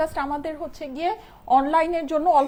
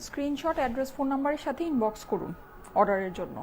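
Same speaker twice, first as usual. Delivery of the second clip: hushed, softer voice during the call to prayer; speaking softly; 10 dB quieter than usual. Real, not acted. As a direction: keep your voice down out of respect. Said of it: "আমি একটু আস্তে কথা বলি". (আজানের সময় নিচু গলায় আস্তে কথা বলা)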